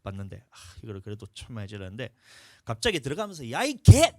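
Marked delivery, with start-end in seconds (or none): 3.5-4.1 loud, high mock yell of an insult; drunk man swearing. Drunk neighbour cursing at the pastor, loud mock yell. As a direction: bark the curse as he storms inside. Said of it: "하면서 막 나한테 욕하면서".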